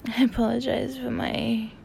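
drowsy morning voice; sleepy morning voice. Real, not acted. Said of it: "my morning sleepy voice".

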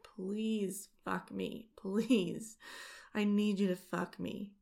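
begging. Acted. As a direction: plead urgently, voice rising. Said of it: "I start to beg".

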